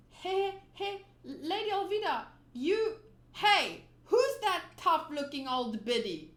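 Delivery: put-on brash kid yelling across the deck; voiced Luffy calling out. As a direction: shout it out with blunt cheek. Luffy calls out rudely to the captain.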